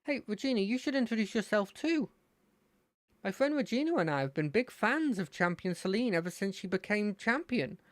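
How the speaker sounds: put-on high, eager boy voice; excited fan gushing about the champion; Terry's voice.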